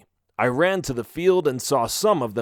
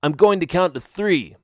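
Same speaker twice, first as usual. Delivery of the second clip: raised voice, somewhat higher; shouted warning; 4 semitones higher, 4 dB louder than usual. Acted. Melvin warns friends before the blast, shouting. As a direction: project it across the rocks. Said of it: "Melvin shouted".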